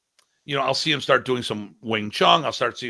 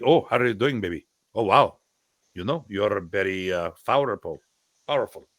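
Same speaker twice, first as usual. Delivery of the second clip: light attempt at an old mentor's accent; Remy Presas; 2 semitones lower than usual. Ex-student showing how he once copied his teacher, lightly accented impression. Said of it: "used to do Remy's accent".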